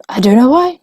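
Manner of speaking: usual speaking voice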